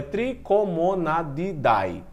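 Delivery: Trichomonadidae broken into slow syllables; careful, difficult pronunciation. Real, not acted. Teacher sounding out a hard family name for students, carefully. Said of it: "Esses nomes eu sempre tenho dificuldade de falá-los".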